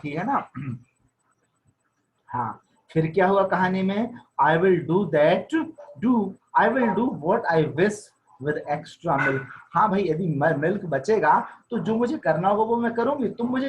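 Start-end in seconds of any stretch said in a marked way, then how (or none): 4.4-9.4 slow, deliberate reading of the English text; slow story reading. A narrator's reading. Teacher reading the wife's line slowly aloud. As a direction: read each word out slowly to the class.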